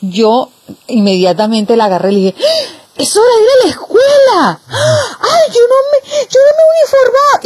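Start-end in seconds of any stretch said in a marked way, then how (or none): 2.4-7.4 high, louder, frantic mock alarm; fake panic. Older sister fools sleepy sister, hammed-up panic. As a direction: shriek as if terribly late, hammed up.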